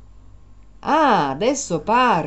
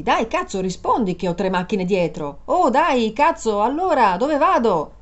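exasperated raised voice; angry. Acted. Driver yelling at the silent passenger with cars behind, angry. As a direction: snap at her to answer now.

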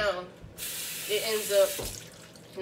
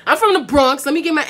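said through laughter, much louder; laughing; 6 semitones higher, 11 dB louder than usual. Real, not acted. Vlogger laughing that she is really from the Bronx, laughing. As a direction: laugh while protesting. Laughing at her own accent.

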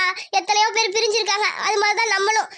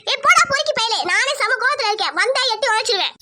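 angry retort. Acted. Angry quarrel with pest suitor.

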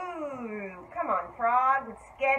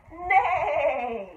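horse neigh; 4 semitones higher than usual. Shown as a demonstration. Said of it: "The horse says".

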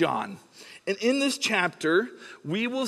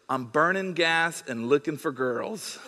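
put-on teen boast; 3 semitones lower than usual. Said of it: "He goes".

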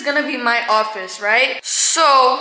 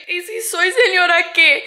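stronger defiance; 6 semitones higher, 4 dB louder than usual. Real, not acted. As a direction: repeat it higher, leaning on señora. Repeats retort with more punch.

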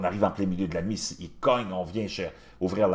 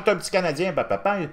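higher, teasing imitation of locals; friendly greeting; 12 semitones higher, 4 dB louder, faster than usual. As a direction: mimic the hosts cheerfully greeting him. Moroccans greeting the Canadian.

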